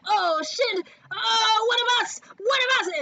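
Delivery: high, excited mock cheering; lighting up. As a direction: imitate delighted recognition of one of your own. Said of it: "when you see them light up".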